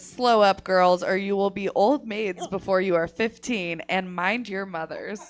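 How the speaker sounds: put-on loud, stern old columnist; prim disapproving aunt. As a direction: scold the girls like a prim aunt. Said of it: "And then she says".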